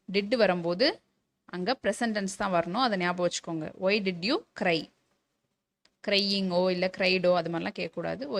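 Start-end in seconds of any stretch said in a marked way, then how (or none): 3.6-4.9 word by word for the class; slow dictation. Shown as a demonstration. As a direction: spell it out slowly. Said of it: "teacher dictates a model sentence". (மெதுவாக சொல்லிக்காட்டுதல்)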